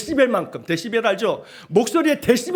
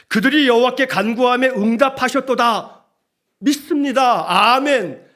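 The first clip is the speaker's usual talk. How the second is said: raised, emphatic declaration of faith; scripture proclamation; 3 semitones higher, 4 dB louder than usual. Acted. Preacher proclaims verse and amen. (믿음으로 힘차게 선포)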